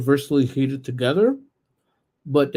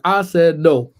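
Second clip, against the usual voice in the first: louder, firm "I said no"; firm parent no; 2 semitones higher, 6 dB louder, slower than usual. Retold or imitated. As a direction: lay down the law. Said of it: "I'm like".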